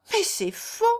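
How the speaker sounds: high-pitched, heartfelt protest; sincere outcry. A narrator's reading. Jeanne denies to Léon that she loves, sincere outcry. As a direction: cry out your denial in earnest. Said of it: "s'écria Jeanne avec l'accent de la vérité".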